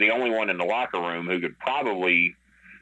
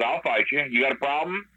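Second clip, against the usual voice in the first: higher-pitched acted dare; retold challenge; 6 semitones higher than usual. Wrestler offering to fight Brock himself, confrontational.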